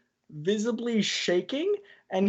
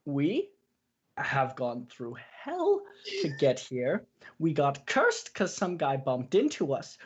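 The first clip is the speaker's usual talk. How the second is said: scarily calm. Acted. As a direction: hold fury under a calm surface. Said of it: "scarily calmest voice".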